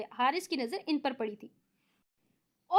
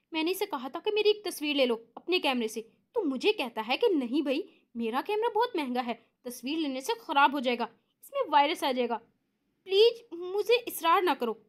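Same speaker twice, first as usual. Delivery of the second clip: mocking imitation. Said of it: "Haider की नकल उतारते हुए".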